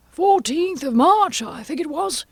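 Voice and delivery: very high, nervous, drawn-out answer; Hatter. Acted.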